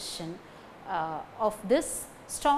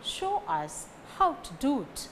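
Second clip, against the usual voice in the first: "Show", "how" and "do" stressed; 2 semitones higher than usual. Shown as a demonstration. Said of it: "Show, how, do carry stress".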